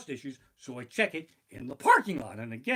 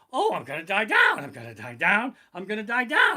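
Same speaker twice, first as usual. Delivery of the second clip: louder, wailing mock panic; 6 semitones higher, 8 dB louder than usual. On the Ferris wheel, mock panicked wailing. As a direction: wail about going down.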